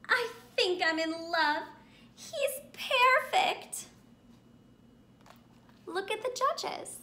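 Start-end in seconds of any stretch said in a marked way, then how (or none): 0.1-3.9 swooning. Acted. Judge swooning over Rot.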